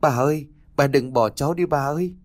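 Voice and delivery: a touch of tearful wailing while running; crying out to grandma. Acted. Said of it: "vừa chạy vừa khóc".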